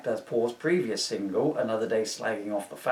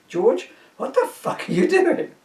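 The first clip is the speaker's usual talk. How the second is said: high, loud mock outrage; mock outraged shout; 12 semitones higher, 6 dB louder than usual. Bosses yelling at George over his records, a hammed-up outraged shout. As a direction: yell it like an appalled boss. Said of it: "said to me".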